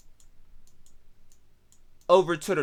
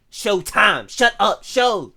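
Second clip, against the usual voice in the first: raised, punchy retort; Garfield slang talk; 3 semitones higher, 4 dB louder, slower than usual. Acted. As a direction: act out a Garfield local cutting someone off. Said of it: "That's how them niggas talk".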